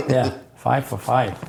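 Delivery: slow, laughing repeat of five for five. Real, not acted. Laughing as he recalls his friends ratting. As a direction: chuckle through five for five.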